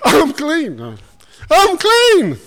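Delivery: a jokester shouting his cure to the hall; joyful shout. Retold or imitated. Schoolboy in a stage skit, shouting high and gleeful. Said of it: "this fella jumps out and he goes".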